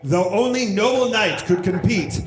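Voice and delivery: lightly voiced movie trailer announcer; slow, drawn-out epic reveal at the end; fighting game announcer. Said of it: "You should do an announcer voice for this".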